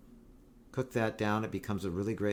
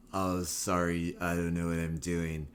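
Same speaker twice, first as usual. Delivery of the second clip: imitated California dude; 5 semitones lower than usual. Retold spaced-out California truck guy.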